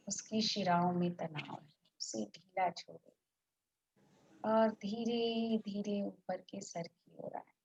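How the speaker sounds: unhurried relaxation guide, long pauses between phrases; guided meditation. Real, not acted.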